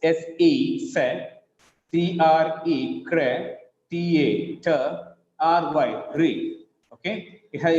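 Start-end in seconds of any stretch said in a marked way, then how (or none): 0.9-1.3 "se" said as a separate syllable. Shown as a demonstration. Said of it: "It seems to have four syllables". 3.0-3.5 "cre" said as a separate syllable. Shown as a demonstration. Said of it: "It seems to have four syllables". 4.6-4.7 "te" said as a separate syllable. Shown as a demonstration. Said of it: "It seems to have four syllables". 6.1-6.6 "re" said as a separate syllable. Shown as a demonstration. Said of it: "It seems to have four syllables".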